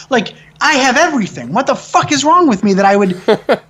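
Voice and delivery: incredulous rant about his own privilege; worked-up rant. Real, not acted. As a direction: pitch up and push, baffled at yourself. Exasperated rant at himself.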